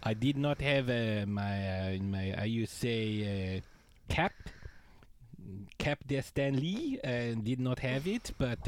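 put-on goofy French-Canadian accent, Borat-like; hammy French accent, halting English; Patrice Bergeron French accent. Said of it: "why does Patrice Bergeron sound like Borat?".

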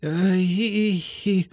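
high, slow halting voice; sad, halting confession. Acted. Greyhound revealing her owner's cruelty, slow, high and sad. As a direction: admit it slowly, ashamed.

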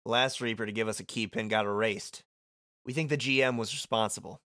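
lightly voiced, casual character read; Beat. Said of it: "I did it in Beat voice".

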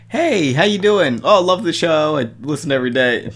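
a hint of an over-friendly radio caller; gushing radio caller. Caller greets the radio host, lightly mocking eager voice. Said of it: "every time someone calls into a radio station".

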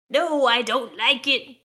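slow, hammed-up objection; disagreeing. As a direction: read it as a drawn-out mock protest. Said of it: "disagreed Ratchet".

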